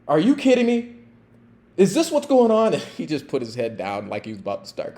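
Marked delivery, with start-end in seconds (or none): 0.1-2.7 angry mom. Retold or imitated. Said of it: "she looked at him".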